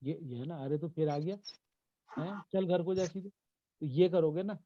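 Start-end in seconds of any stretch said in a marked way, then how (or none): 0.6-3.3 lightly acted telling-off of a neighbour's kid; mock-scold a child who turned up uninvited; natural scolding reaction. Shown as a demonstration. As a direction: shoo the child home, rising at the end. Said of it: "react की तो बात है".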